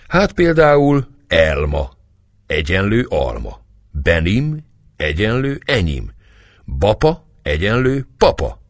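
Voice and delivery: excited exclaiming. A narrator's reading. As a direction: show off new Turkish words with delight. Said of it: "kiáltott Éva tapsolva". (lelkes, izgatott felsorolás)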